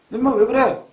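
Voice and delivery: mock telling-off, a touch sharp; acted parental scolding. Father scolding his son over a mistake, mock stern. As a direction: act out a father rebuking his child. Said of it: "또 애들 혼내잖아요".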